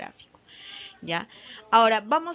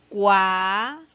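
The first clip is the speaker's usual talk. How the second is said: Cuaderno with DER said louder; teacher modelling the stressed syllable in Cuaderno; 7 dB louder, slower than usual. Shown as a demonstration. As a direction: punch the DER of Cuaderno, rising. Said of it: "Y la más fuerte".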